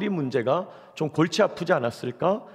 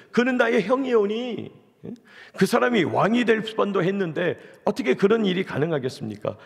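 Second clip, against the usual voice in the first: raised pitch, acted indignant protest; exasperated king; 5 semitones higher than usual. Solomon challenging his mother's request, indignant and higher. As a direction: plead the objection in higher, mounting exasperation. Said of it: "지금 솔로몬이 너무 화가 나고".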